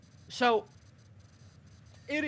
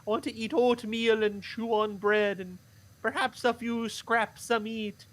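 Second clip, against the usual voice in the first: put-on scared poor boy. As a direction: plead like a hungry lad afraid of his family. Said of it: "I'm supposed to keep the voice up".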